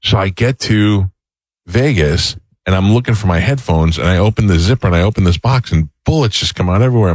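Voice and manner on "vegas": ordinary talk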